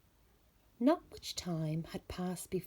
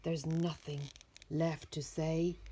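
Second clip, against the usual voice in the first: growled; 3 semitones lower than usual. Acted. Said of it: "Bear growled".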